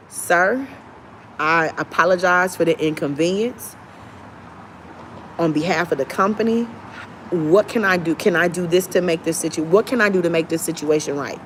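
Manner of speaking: softly apologetic, like a courteous agent; calm, careful customer service tone; polite service voice. Shown as a demonstration. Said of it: "demonstrates polite agent voice".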